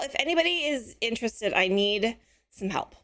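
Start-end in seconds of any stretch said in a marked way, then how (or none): 1.5-3.0 slow, laughing through the ask; laughing plea. Real, not acted. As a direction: chuckle as you beg for help. Pleading for help, laughing.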